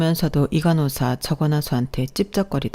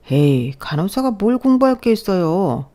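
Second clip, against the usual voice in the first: dismissive scoff; 3 semitones higher, 4 dB louder than usual. Acted. Pushy doctor scoffs at refusal.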